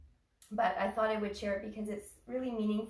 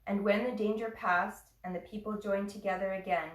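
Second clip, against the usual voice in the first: measured reading with pauses between phrases; unhurried recital, phrase by phrase; poem reading. Real, not acted. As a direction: read a poem aloud, letting each phrase settle. Reads a poem to class.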